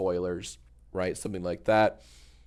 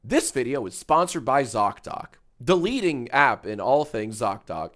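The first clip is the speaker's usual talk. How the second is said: YouTuber voice. Retold or imitated. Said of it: "The YouTuber voice is like".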